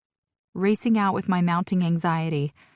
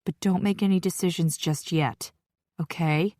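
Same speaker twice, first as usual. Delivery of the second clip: pleading. Acted. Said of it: "she pleads".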